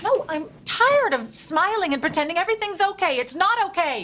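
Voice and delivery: high, exasperated protest; angry and at the end of patience; fed-up outburst. Acted. Fed up, quarrel at family table.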